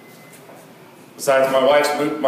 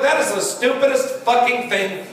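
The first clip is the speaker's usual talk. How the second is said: mock outrage; 7 semitones higher than usual. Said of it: "I'm going like".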